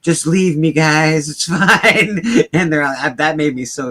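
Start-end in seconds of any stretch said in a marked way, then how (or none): 0.0-2.2 louder, higher, laughing hero; mock brave sacrifice. Quoting the trapped hero telling friends to go, laughing. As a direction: ham up the noble goodbye.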